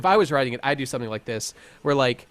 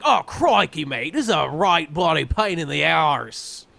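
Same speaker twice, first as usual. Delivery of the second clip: bad Scottish attempt; 3 semitones higher, 4 dB louder, slower than usual. Podcaster attempts the character's voice as Scottish, in a hammed-up bad accent. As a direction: try a Scottish accent and land on Aussie. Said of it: "She'd be like".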